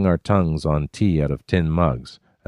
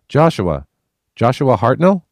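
calling the name louder into the forest; called out; 8 semitones higher, 5 dB louder than usual. A narrator's reading. Narrator calling the ghost's name as it walks away. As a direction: call after the departing ghost. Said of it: "I called".

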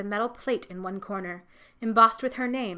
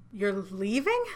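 a mild choked question; slower than usual. A narrator's reading. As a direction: ask it as if tears catch the throat. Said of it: "asked Ruth in a choked voice".

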